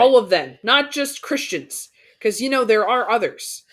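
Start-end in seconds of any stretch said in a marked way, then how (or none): 0.0-1.9 loud, pointed jab; pointed sarcasm. Real, not acted. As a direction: say it with a pointed edge. Pointed remark about religion.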